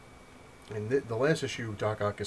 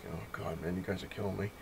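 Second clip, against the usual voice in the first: soft, tired mock complaint; mock exasperation; 6 dB quieter than usual. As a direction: sigh it out as if worn down. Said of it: "I'm just like".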